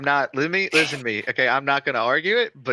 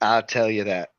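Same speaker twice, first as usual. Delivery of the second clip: country-accented sign-off. Real, not acted. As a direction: say it with a country twang. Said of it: "that sounded so country".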